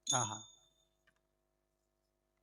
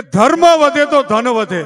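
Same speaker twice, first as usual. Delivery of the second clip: first line of the verse, recited; 2 semitones higher, 6 dB louder than usual. Shown as a demonstration. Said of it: "તો અમારો કવિ એમ કહે છે".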